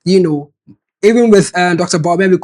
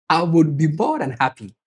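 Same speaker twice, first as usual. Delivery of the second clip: laughing; 5 dB quieter than usual. Real, not acted. Laughing reply to Joe's question.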